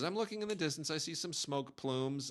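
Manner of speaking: unbothered mother describing smoke, lightly mimicked; calm mother. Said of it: "she says".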